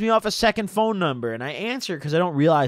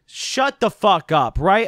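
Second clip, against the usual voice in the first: mock shut up; 3 semitones higher, 6 dB louder, slower than usual. Dismissing Dan's story.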